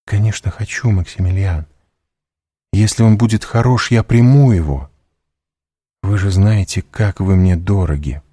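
begging him for a good plan; high, eager pleading young woman; Valentina, earnest. Acted.

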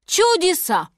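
high exclamation of wonder; amazed walrus. Acted. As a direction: marvel out loud.

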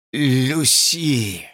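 hoarse, strained name. A narrator's reading. George saying Lucy's name hoarsely. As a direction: voice catching. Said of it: "хрипло сказал он".

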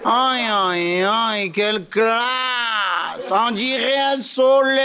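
gushing pied-noir flattery to De Gaulle; exaggerated pied-noir accent, fawning; Pompidou with pied-noir accent. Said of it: "ils ont tous l'accent pied noir maintenant".

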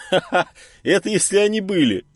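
high mocking laugh into the words; smirking laugh. Ulyan mocking the enemy's brains, laughing. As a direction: chuckle it out with a smirk. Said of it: "усмехнулся Ульян".

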